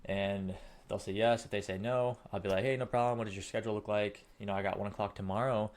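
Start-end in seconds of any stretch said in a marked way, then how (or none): 2.7-5.7 easygoing sales reply. Shown as a demonstration. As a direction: keep it breezy and accommodating. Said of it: "So let's just role play this".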